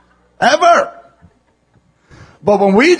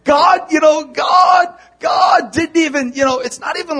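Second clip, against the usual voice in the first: emphatic preaching; 7 semitones higher than usual. Real, not acted. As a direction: hammer the point home from the pulpit. Preacher building to emphatic point.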